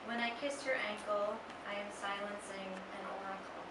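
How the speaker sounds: measured poem reading with long pauses; unhurried recital, line by line; poetry reading. Acted. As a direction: read it as a poem, letting each line settle. Reads a student's poem aloud.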